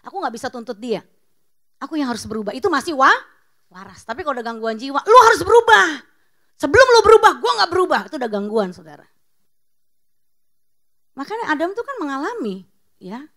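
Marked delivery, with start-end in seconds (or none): 5.0-8.0 loud, much higher mock rant; angry demand. Preacher imitating a stubborn spouse, loud mock rant. Voicing a disturbed, demanding person.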